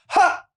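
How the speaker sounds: high, isolated "ha"; single "ha". Retold or imitated. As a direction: throw out one high mock laugh. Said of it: "the nights that say".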